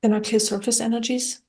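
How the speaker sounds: calm, even meditation guidance with long pauses; guided meditation. Acted. Guide talking listeners through clearing their energy, calm guided meditation. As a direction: guide gently, leaving long silences between phrases.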